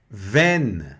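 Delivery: Veine with an e sound, final e silent; Veine, clearly modelled; French word Veine. Shown as a demonstration. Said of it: "som de E".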